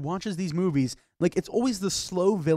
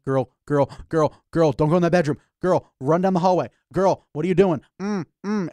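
louder, urgent mock warning to the screen; warning the girl; 5 dB louder than usual. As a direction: shout at the movie girl. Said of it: "and you're like".

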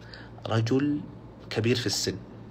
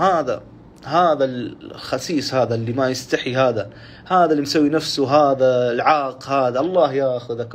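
raised, insulting voice, slow on the slurs; father cursing son; 5 dB louder, slower than usual. Retold or imitated. Old father cursing his son before his brothers, angry. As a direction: spit the insults out in front of the brothers. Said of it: "ويسب فيه قدام أخوانه".

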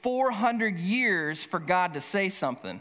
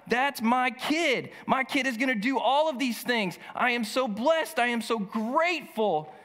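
proud father; 5 semitones higher than usual. Retold or imitated. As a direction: gush over the child with gratitude. Zechariah voiced singing over his son.

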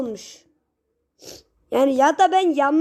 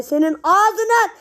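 panicked curse; 6 semitones higher, 4 dB louder than usual. Real, not acted. Cursing in panic.

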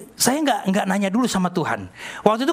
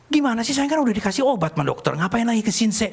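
higher, questioning objection; mild wifely protest; 5 semitones higher than usual. Retold or imitated. Wife objecting to husband about seeing a healer, mildly exasperated.

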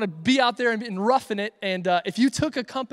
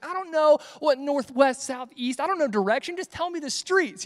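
put-on frustrated girlfriend; 5 semitones higher than usual. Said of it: "she got so frustrated 'cause she's like".

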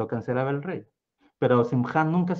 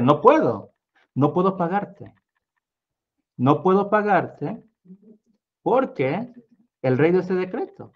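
higher, pleading refusal; a lightly voiced sorry paymaster; apologetic paymaster; 4 semitones higher, 4 dB louder than usual. A narrator's reading. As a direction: refuse regretfully.

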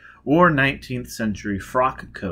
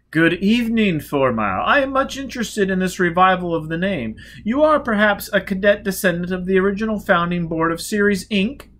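lightly voiced old magnate; 9 semitones higher, 6 dB louder than usual. Skoda speaks.

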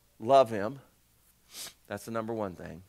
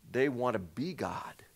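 1 hushed aside; 5 semitones lower, 5 dB quieter, slower than usual. Acted. Preacher drops voice for emphasis.

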